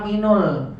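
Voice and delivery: MINUL with a u wrongly linking min to al; wrong linking vowel. Shown as a demonstration. Student's mistaken reading quoted by teacher, MINUL with a u. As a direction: say MINUL, a u before the final l. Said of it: "Nggak bisa".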